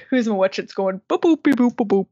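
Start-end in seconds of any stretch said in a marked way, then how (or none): 1.1-2.1 robot beeps. Retold or imitated. Robotic animatronic sound effects.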